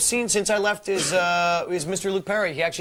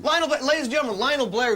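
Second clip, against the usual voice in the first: presenter voice, mildly raised; showbiz introduction; 4 semitones higher than usual. Acted. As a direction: introduce the guest like a host. Introducing a guest showbiz-style.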